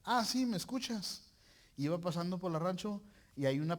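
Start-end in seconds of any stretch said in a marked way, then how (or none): 0.0-1.2 higher, slow and teasing, a dare; God's challenge. Acted. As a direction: test him with a playful ¿me escuchas?. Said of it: "Dios me retó". (Dios retándolo en tono burlón y lento)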